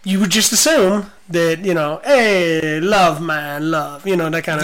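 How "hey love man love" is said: put-on a light Jamaican accent, easy and relaxed; a hint of Jamaican lilt, mellow Rastafarian. Coworker imitating a Rastafarian friend in a mild Jamaican accent. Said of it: "I did it in Jamaican voice".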